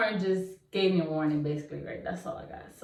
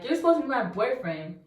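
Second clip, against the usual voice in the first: angry accusation; 4 semitones higher, faster than usual. Retold or imitated. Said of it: "I was so mad".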